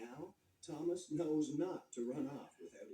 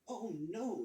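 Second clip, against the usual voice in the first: a sudden higher, louder cry of alarm; exclaiming; 6 semitones higher, 4 dB louder than usual. A narrator's reading. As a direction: blurt it out as the engine derails. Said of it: "he exclaimed".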